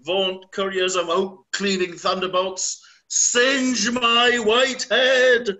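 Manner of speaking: loud, high, slow roar into the storm; old king howling at the storm, loud and high; raging king. Acted. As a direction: bellow at the heavens like mad Lear.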